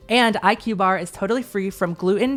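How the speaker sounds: upbeat podcast ad read; sponsor ad read. Acted. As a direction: sell the snack bar like a host ad.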